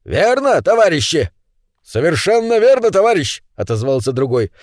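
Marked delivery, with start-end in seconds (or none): 0.0-1.3 high-pitched call for agreement; rallying. A narrator's reading. Gnome asks comrades to confirm, rallying cry. 1.8-3.4 high-pitched rallying reply; emphatic agreement. A narrator's reading. Another gnome backs his comrade, emphatic high reply.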